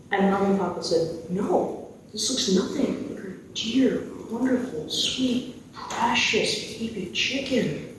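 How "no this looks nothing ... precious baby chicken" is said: slow, tender, lingering on each endearment; doting lament. Acted. Parents rejecting the taxidermist's work, slow doting lament. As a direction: stretch out each adjective softly, with mock grief.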